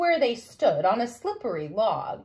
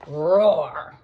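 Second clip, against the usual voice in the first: roar; 8 semitones lower, 6 dB louder than usual. Acted. Loud roar in story.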